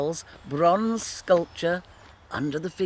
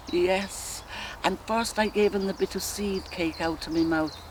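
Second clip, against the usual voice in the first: musing woman's dramatic monologue, long pauses; Molly Bloom. Acted. A wife recalling her courtship aloud, dreamy reverie with flashes of defiance. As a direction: drift from memory to memory, savouring each.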